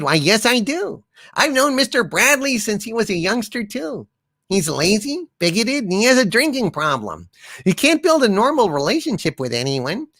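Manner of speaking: put-on a sweet old lady tearing into him; old woman witness. Grandma witness to the prosecutor, lightly voiced scolding.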